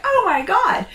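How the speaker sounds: high, loud hammed-up shriek; mock scream. Camper owner losing it over spilled water, mock screaming. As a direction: shriek it in comic overreaction, laugh in the voice. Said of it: "I'm, like, screaming".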